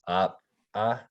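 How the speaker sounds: "uh" popped and unvoiced after the catch; popped glottal syllables. Shown as a demonstration. Teacher demonstrating popped glottal letters. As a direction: pop each "uh" out with no voice after. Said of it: "It's kinda unvoiced after".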